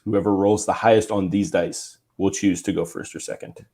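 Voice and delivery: stiff robotic announcement. Shown as a demonstration. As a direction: recite it like a psycho robot. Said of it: "makes me sound like a psycho robot".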